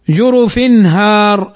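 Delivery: slow, clear tanween in "جرف", then a distinct ha in "هار"; izhar demo. Shown as a demonstration. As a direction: recite "جرف هار" slowly, the n sound clear before "هار". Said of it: "فنظهر فنقول".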